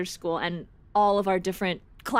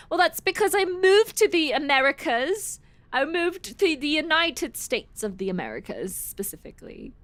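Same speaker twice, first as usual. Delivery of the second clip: put-on British accent, slightly hammed-up; attempted British accent; bad British accent; 7 semitones higher than usual. Shown as a demonstration. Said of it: "My British is really bad now".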